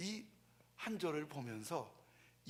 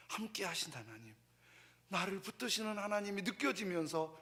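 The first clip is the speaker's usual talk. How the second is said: normal talking voice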